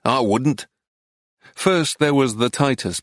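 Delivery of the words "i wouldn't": snapped. A narrator's reading. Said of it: "he snapped".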